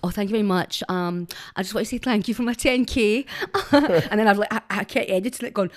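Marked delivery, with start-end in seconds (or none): 0.0-3.3 lightly put-on polished voice, slightly louder; TikTok voice. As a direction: try not to sound Scottish, a bit louder. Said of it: "I sound Scottish".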